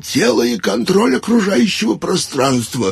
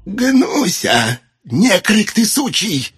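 put-on barking old man; 12 semitones higher, much slower than usual. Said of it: "вдруг как рявкнет".

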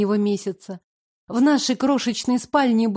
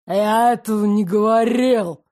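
louder growling denial; growled; 3 dB louder than usual. Acted. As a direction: growl it at her. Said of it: "прорычал Ирик".

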